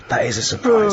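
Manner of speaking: mock polite surprise. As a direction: feign polite shock. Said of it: "I went".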